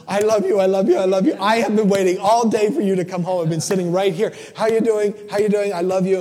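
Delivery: high, loud, gushing dog talking to its owner; excited dog voice. Retold or imitated. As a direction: play the overjoyed dog greeting you at the door. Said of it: "and just goes".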